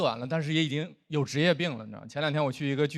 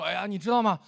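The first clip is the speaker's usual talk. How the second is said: mock gushing young fan, pitched up; mildly excited fan; 6 semitones higher than usual. Imitating young performer meeting a childhood idol, excited gushing. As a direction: imitate an eager student fan lightly. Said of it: "演完看到我也很激动".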